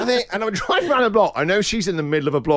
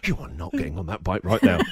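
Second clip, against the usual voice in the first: stern dad order; 11 semitones lower, 4 dB quieter than usual. Retold or imitated. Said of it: "I do this".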